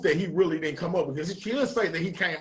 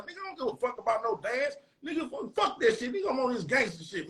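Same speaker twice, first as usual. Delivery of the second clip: retold heated brush-off; 5 semitones higher than usual. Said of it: "I was like".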